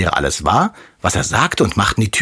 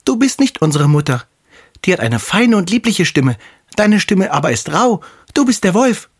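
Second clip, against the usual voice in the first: put-on kids calling out; 11 semitones higher than usual. The kids refuse the wolf at the door, high defiant call. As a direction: shout it defiantly like little goats. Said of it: "riefen sie".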